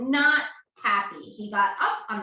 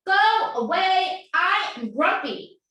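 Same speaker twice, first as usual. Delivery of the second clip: grumpy owl; 6 semitones higher, 7 dB louder than usual. Acted. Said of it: "And he says".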